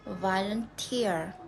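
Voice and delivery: "volunteer" with the beat on TEER; stress on final syllable. Shown as a demonstration. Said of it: "then we stress in the final syllable".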